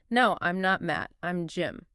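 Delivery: natural conversational pace. Shown as a demonstration. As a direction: run it together naturally, falling away at the end. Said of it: "say it a little faster, more naturally".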